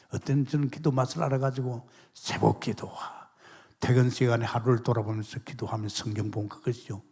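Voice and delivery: ordinary talk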